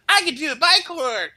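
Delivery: high, loud excited boast; young boy proudly announcing his bike horn trick; proud kid. Retold or imitated. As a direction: brag like a thrilled little kid. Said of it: "I'm like".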